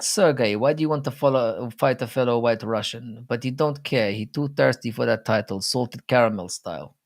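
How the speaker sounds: put-on, hammy Russian accent; bad Russian accent. Mocking a fighter's thirst for the title, bad Russian accent. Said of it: "in a very bad Russian accent".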